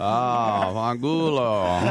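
slow, savoured Italian swear in a put-on voice; drawn-out Italian curse. Echoing the Italian insult back, slow and hammed-up. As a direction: relish the word like a mock Italian.

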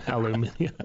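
imitated English "aluminium", tossed back lightly; British-style "aluminium" with the extra syllable; English pronunciation. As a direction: echo British "aluminium", al-yoo-MIN-ee-um. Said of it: "English pronunciation".

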